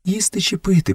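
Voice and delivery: high, hushed woman's voice; lightly suggested stage whisper; whispered question. A narrator's reading. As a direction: ask timidly, pitched well up. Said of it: "прошепотіла Месуа".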